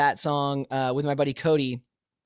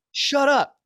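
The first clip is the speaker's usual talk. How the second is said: much higher, louder snap of frustration; exasperated outburst; 10 semitones higher, 3 dB louder than usual. Retold or imitated. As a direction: blurt it out, fed up with everyone. Frustrated artist mocking all the voices.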